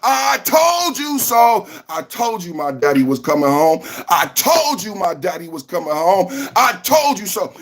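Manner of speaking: a hint of a gloating Trump, shouted; mock Trump crowing. Streamer voicing Trump on his thumbnail, mild mock gloat. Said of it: "It's Trump on the side saying".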